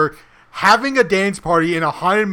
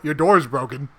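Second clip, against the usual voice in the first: deadpan; 4 semitones lower, 3 dB quieter than usual. Retold or imitated. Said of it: "you're like".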